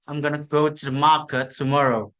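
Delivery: British rhythm with "gonna" reduced and run smoothly; British English, unstressed syllables compressed into a smooth flow; British accent rhythm. Shown as a demonstration. Student demonstrating British rhythm with an example sentence, British accent. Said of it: "even stronger vowel reduction and smoother flow".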